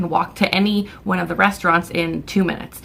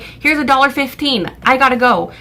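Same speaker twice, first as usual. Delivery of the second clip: higher, impatient brush-off; hurried impatience; 6 semitones higher, 3 dB louder than usual. Retold or imitated. Customer wanting to pay for the card and go, impatient. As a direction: act out cutting the transaction short.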